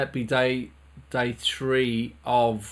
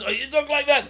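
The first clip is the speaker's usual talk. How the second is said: very high squeezed voice; squeaky high voice; 12 semitones higher, faster than usual. Shown as a demonstration. Teacher demonstrating a squeaky high strained voice.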